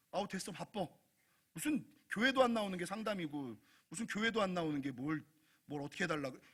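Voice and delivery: soft, grumbling acted pastor; dismissive brush-off. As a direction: brush them off as a bother. Pastor brushing off someone seeking counsel.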